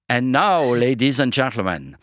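hammed-up stage MC with a French accent, drawing out the name; French-accented announcer. Radio host introduces a singer as French-accented announcer. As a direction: present the star like a grand Paris opera announcer, French accent. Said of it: "je vais faire l'aboyeur, le speaker, euh, avec With My French Accent from Paris".

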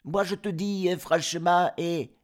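cris aigus et forts d'enfants; chevreaux qui crient. Acted. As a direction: ils refusent d'ouvrir, en criant. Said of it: "crièrent". (chevreaux criards)

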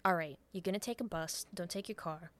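lightly voiced scheming mastermind; crime mastermind. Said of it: "she becomes the crime mastermind".

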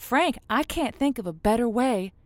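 smooth on-air host wrapping up the night; radio host. Acted. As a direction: close the show sweetly for the listeners. Host wraps up show on air.

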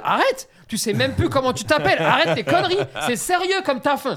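mock scolding. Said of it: "ils sont vraiment en train de lui dire".

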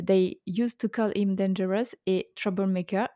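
mock English accent. Shown as a demonstration. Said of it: "avec mon plus bel accent anglais".

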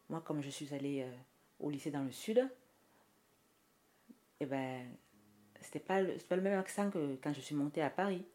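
southern French accent from Toulouse; southern Toulouse twang. Shown as a demonstration. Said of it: "l'accent de Toulouse".

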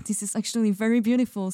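laughing through the words, quick; a fast, giddy laugh of disbelief; breathless giggly wonder; laughing amazement. Retold or imitated. Laughing while retelling amazement.

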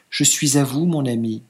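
a touch of troubled hesitation. Acted. Bride answering her husband, mildly troubled. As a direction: say it unsure, a little shaken. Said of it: "troublée de nouveau".

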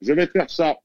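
talking through a bite of cake; words round a mouthful; mouth full. Real, not acted. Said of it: "Pardon, je mange un gâteau".

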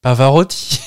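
excited shout of a wild guess. Real, not acted. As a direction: yell the name out.

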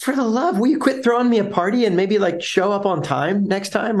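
pitched well up, fast, fed-up customer; exasperated customer. Retold or imitated. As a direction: blurt it out like a customer sick of the fuss. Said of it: "You're like".

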